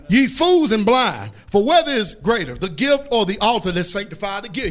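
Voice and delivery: forceful preacher's scripture reading. Retold or imitated. Preacher reading woes on blind guides, stern declamation. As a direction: declaim it phrase by phrase, each ending falling.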